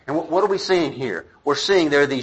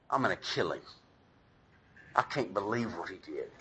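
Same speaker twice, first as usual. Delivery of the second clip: half-joking threat; 7 semitones lower, 13 dB quieter than usual. Retold or imitated. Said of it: "half jokingly".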